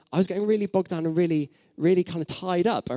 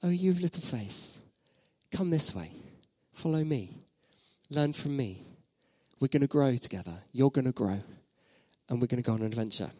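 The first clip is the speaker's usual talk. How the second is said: softer, gentle invitation; inviting, tender; 3 semitones lower, 5 dB quieter than usual. Retold or imitated. Jesus inviting his doubting followers, soft and tender. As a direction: coax them kindly to come along. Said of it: "He's saying".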